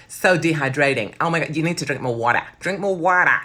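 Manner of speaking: a loose, hammed-up Long Island accent on "So dehydrating". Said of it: "that's Long Island".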